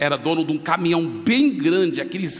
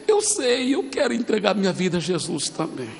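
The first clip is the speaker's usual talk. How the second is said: mock weepy agreement; imitated tearful husband; 2 semitones higher than usual. Preacher acts the husband who also wants Jesus, tearfully. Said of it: "que ainda tava chorando em pé".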